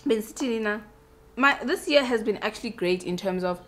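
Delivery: eating while talking; mouth full. Real, not acted. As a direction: talk through a mouthful of salad. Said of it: "but I'm eating while talking".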